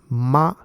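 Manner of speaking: "ma" held slowly and level, the flat first tone. Shown as a demonstration. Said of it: "the example of M A".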